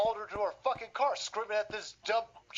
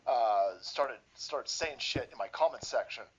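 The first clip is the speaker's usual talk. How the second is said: much lower, dumb boastful voice; imitating a bragging bigot in a much lower voice; mock lunatic; 10 semitones lower than usual. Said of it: "he's like".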